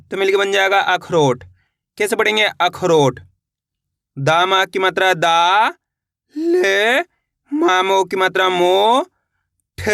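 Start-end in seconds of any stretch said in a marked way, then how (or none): 4.2-9.9 slow drill, "दा", "ले", "मो" held long and rising; syllable-by-syllable spelling. Shown as a demonstration. Teacher leading learners to repeat along, slowly spelled out. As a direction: stretch "दा" and "मो", "ठ" on its own. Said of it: "मेरे साथ साथ इनको रिपीट करना है".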